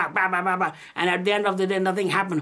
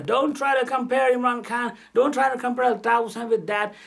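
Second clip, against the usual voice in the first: angry warning; 5 semitones higher than usual. Real, not acted. Angry rebuke of politician.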